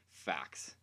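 low, soft deadpan aside. Acted. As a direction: drop the word flat and low. Deadpan single word.

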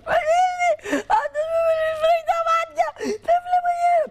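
high wailing cry-shout, sobbing the words. Retold or imitated. Betty wails, blinded by pepper spray, crying shout. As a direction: wail it out like someone just pepper-sprayed. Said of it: "έρχεται η Μπέτη και κλαίει".

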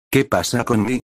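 alza la voz como un niño pequeño, fina y aguda; voz infantil aguda. A narrator's reading. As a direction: suena como un crío sin querer. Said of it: "voz extrañamente infantil y aguda". (voz aniñada y aguda)

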